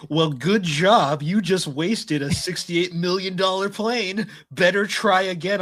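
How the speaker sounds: high, drawn-out mock indignation; indignant. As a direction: imitate a huffy, scolding game message. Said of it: "It is the most indignant thing ever".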